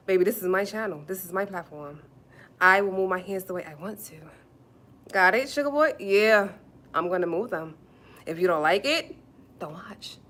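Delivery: firm, loud talking-back; sassy defiance. Real, not acted. Streamer telling Sugar Boy it's her channel, defiant. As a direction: lay down the law to a heckler. Standing her ground against commenter.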